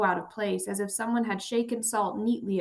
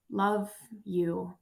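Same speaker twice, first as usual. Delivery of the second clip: rasped. Acted. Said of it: "he rasped".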